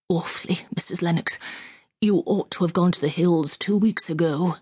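put-on young officer, shaken; words trembling with dread. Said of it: "in a trembling voice".

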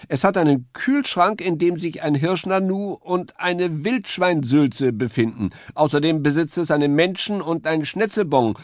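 very high, chirpy bird voice; high woodpecker voice. A narrator's reading. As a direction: play the eager little woodpecker.

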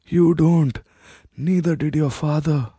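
a queen demanding her birthright; proud queen mother. Acted. Satya, the queen, presses her son to reclaim the throne.

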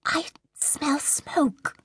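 high, slow, uneasy trance voice; slight concern. A narrator's reading. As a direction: sense danger slowly from far away. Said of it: "An edge of slight concern had entered her voice".

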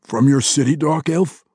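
questioning, rising up on elf; a wary question, lifted high; asking. A narrator's reading. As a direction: gnome asking the dark elf warily. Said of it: "Belwar asked".

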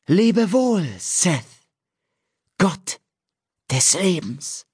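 high, slow oracle voice intoning fate; solemn prophecy. A narrator's reading. Nymph Ewan proclaiming a prophecy by the sea, high and solemn. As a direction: chant it like an entranced seer, pitched high.

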